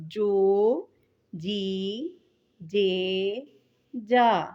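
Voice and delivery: بو، بی، بے، با each blended and held; syllable blending. Shown as a demonstration. Teacher blending ب with the vowels for pupils. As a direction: sound ب with each vowel in turn. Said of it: "جیم کو اگر کریں گے".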